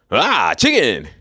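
a hammed-up caricature shout of the word chicken; minstrel caricature. Mocking the coon on TV with a hammed-up caricature cry. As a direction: spike the pitch and sell it like a TV minstrel. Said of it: "put some coon on T V".

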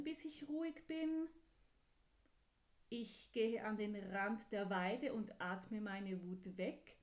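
listing plans with growing confidence; eager little horse. Acted. Horse explaining its calm-down ideas to the kind voice.

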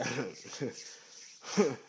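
short, broken-up laugh; real amused laugh. Real, not acted. Laughs after boasting, then stops.

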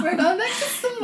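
put-on high, laughing valley girl; giggly mock valley girl voice; hammed-up valley girl. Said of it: "you sound like a freaking valley girl".

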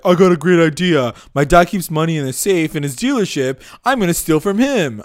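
imitating Reggie. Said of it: "Reggie's like".

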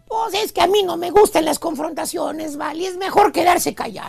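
soft, placid and unbothered; a hint of a meek, unbothered driver; very calm and meek. Meek driver to passenger, softly calm. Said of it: "bien tranquilito y dice".

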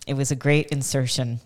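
chewing gum while talking; talking around a piece of gum; mouth full. Real, not acted. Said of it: "You have gum in your mouth".

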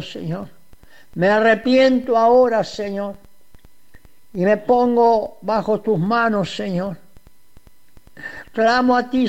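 humble repentant prayer, each Señor fading away; voicing the sinner's prayer for listeners, humble and pleading; model prayer of repentance. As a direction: pray it for the listener as if confessing yourself. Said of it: "Cuando tú abres el corazón y dices".

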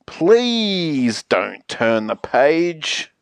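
long, slow stretch on "Please"; measured, imploring request; drawn-out plea. Acted. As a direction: beg slowly, leaning on the first word. Plea after threatening silent treatment.

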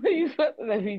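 laughing through the question; giggly mock complaint. Real, not acted. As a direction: ask it while cracking up. Cracking up at being fussed at.

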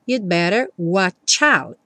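slow "you'd better" with no B; dropped B. Shown as a demonstration. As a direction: say "you'd better" slowly, B vanishes. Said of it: "vai ficar you'd better". ("you'd better" lento, sem o B)

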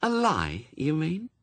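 high, sweetly pointed question. A narrator's reading. Anathema catching Newt in a lie, sweetly. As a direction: lift it lightly, with mock innocence. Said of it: "said Anathema sweetly".

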